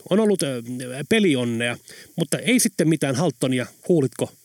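a lightly voiced annoyed old woman rattling on; irritated torrent of words. Old Sylvy on the phone, mildly annoyed, talking nonstop. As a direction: pour it out without a pause, mildly miffed. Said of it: "närkästyneen kuuloinen sylvitälin ääni ja seurasi sanojen tulvaa".

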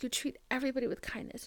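hushed, imitated reassurance; tender quote. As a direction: quote kind words under your voice. Retelling mother's kind words.

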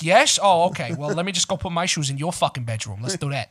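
mock agreement in a New York accent; angry New York accent. Speaker pretending to agree about shoes, sarcastic New York accent. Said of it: "I'll just pretend to be angry".

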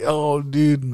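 high, loud surprised exclamation; startled reaction; surprised "oh dude". Retold or imitated. Friend reacting in retold story.

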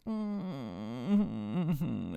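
mock whimpering hum; put-on wordless whine; imitated whining. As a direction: imitate a kid's closed-mouth whimper. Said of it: "He's just sitting there whining".

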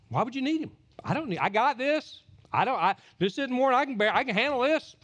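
lightly voiced smug believer; mock self-reliant believer. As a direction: play the proud one who needs no help.

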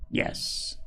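soft, approving mother's yes; quietly pleased with the child. A narrator's reading. Mother praising her daughter's plate of toast, approving. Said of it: "said Missus Pepper approvingly".

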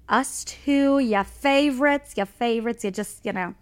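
put-on light, playful Jersey accent. Host plugging the live show, sliding into a Jersey accent. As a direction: slip into a hint of Jersey. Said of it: "I'm going into a Jersey accent".

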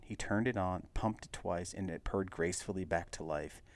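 steady, measured read-aloud narrator; story narration. A narrator's reading. Reader telling the Buick's history, story narration.

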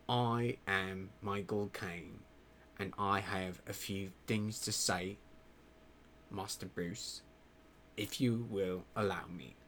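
low, measured British butler impression; hammed-up British voice, dropped down low; Michael Caine. Butler asking Master Bruce's leave to speak, bad impression. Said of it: "impersonate horribly, might I add, Michael Caine".

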